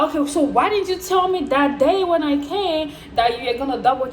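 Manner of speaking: pleading complaint, acted out; retold indignation. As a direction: re-enact challenging the bank, exasperated. Retold confrontation with the bank.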